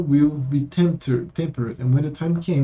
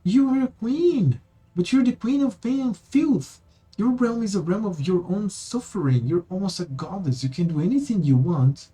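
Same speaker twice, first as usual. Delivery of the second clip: desperate plea; 5 semitones higher than usual. Acted. Amber pleading with the queen, lightly voiced desperation. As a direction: beg her to see it, rising in pitch. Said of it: "His voice screams desperately".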